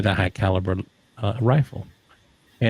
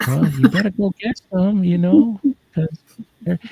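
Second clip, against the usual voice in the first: neighbor's blunt advice; 10 semitones higher, 5 dB louder than usual. Retold or imitated. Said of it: "And my wife goes".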